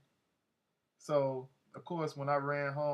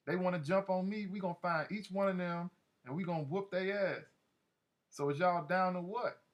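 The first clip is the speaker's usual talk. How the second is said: shouted NO, then high, worked-up rallying; mock outraged shout easing into higher-pitched urging; half-screamed shout; 5 semitones higher than usual. Marcus rallying the crew for revenge, imitated shouting. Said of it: "like, shouting, like, kinda screaming".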